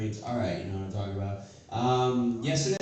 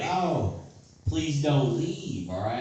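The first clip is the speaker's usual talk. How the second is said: put-on slow, drawn-out plea of a frail old woman; a mild, pleading imitation of grandma; 2 semitones higher, 3 dB louder, slower than usual.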